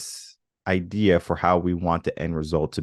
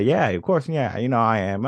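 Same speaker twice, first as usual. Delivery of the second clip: glib assurance; 5 semitones higher than usual. Acted. Glib first answer to self-question.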